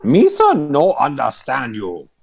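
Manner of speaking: high, squeaky broken speech; a hammed-up pidgin talking down to a goblin. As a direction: squeak it out in mock goblin talk. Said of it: "and I say".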